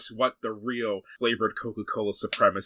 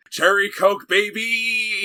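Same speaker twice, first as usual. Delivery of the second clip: loud, high hype shout; excited hype; 10 semitones higher, 7 dB louder, much slower than usual. Real, not acted. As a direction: sell it like a fan. Hyping his favorite soda.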